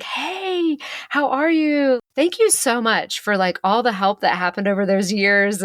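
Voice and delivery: overly nice greeting. Retold or imitated. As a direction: greet her like an old pal. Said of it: "he's so nice to her".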